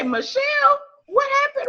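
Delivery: high, shocked cry of the name; as if something awful happened to Michelle; alarmed surprise. Retold or imitated. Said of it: "I was about to say".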